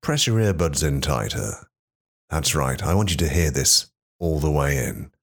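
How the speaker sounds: intimate low voice. Acted. Intimate podcast opener, lower voice.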